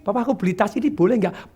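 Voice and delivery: softened, put-on feminine request. Wife asking husband to buy a bag, feminine. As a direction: ask coyly in a mock wifely voice. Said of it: "Pakai feminin".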